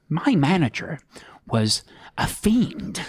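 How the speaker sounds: slow, whispered menacing villain; Joker whisper. Acted. Host keeps his Joker bit going in a slow, menacing whisper. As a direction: breathe it out slowly like the Joker. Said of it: "It's a good accent".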